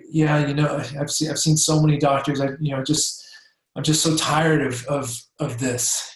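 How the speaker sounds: tired, deflated sigh of a patient; hopeless patient voice. Retold or imitated. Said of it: "she's gonna be talking like this".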